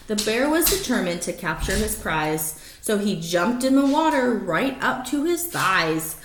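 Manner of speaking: lively rhyming read-aloud; story narration. Acted. Reading a rhyming picture book to the dogs, lively storytelling. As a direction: read it like a bedtime picture book, bouncing the rhymes.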